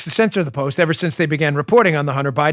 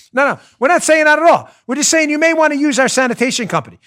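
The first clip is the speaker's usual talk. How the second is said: mobster voice; 10 semitones higher, 6 dB louder than usual. Retold or imitated. Mob enforcer voiced in story.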